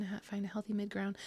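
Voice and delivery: soft whisper. Real, not acted. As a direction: breathe it out quietly. Whispered aside.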